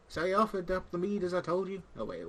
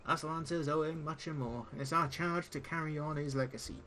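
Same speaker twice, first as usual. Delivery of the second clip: pirate-esque speech. Acted. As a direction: play the gruff old tavern pirate, not too broad. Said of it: "pirate-esque speech".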